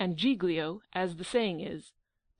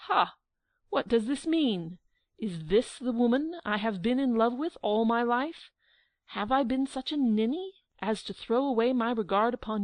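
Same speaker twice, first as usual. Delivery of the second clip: crying out; 3 semitones higher than usual. Acted. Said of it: "he cried out".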